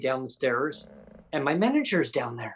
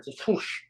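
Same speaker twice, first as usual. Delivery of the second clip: whoosh noise; 4 semitones higher, 4 dB quieter than usual. Retold or imitated. Imitates hair whipping past.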